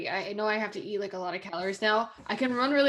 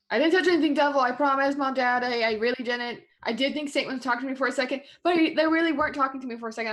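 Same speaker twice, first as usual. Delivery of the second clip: louder, fast panicked pleading; freaking out; 4 semitones higher, 5 dB louder, faster than usual. Acted. Athlete to her parents, panicky loud pleading. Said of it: "I'm really freaking out".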